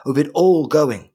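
defiant noble lady defending home; fierce, proud landowner pleading her case; proud keep lady. Acted. In character as Orla, pleading.

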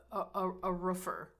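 quick Minnesota accent on roofer; rounded Upper Midwest Minnesota vowels. Real, not acted. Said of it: "I just said that with my Minnesota accent".

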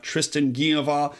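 attempted French pronunciation of the name; lightly put-on, clumsy French accent; bad French accent. Host introduces his guest by name, poor French accent. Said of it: "that's my worst French accent".

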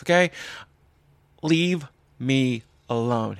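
angry rant. Retold or imitated. Ranting at PETA guy.

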